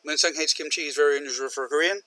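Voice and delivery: rushed into one breath; no stop between the sentences; run-on, no pause. Shown as a demonstration. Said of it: "Separate them".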